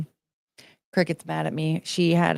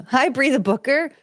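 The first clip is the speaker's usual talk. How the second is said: Mike Tyson impression; 7 semitones higher than usual. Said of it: "You have a Mike Tyson impression?".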